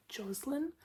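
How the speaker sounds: "Jocelyn" with a z sound in the middle; Australian pronunciation. Shown as a demonstration. Host showing how Australians say the name, Jocelyn as JOZ-lin. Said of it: "we normally pronounce it".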